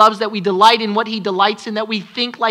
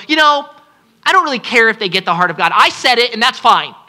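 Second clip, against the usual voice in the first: lazy shrug; faster than usual. Retold or imitated. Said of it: "We don't get to go".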